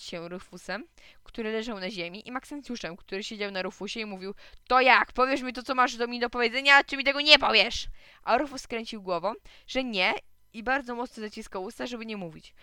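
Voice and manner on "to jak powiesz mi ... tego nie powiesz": loud, high interrogation; forceful, pitched-up badgering; insistent demand. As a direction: press for an answer, shouting. Boy pins another, demands an answer.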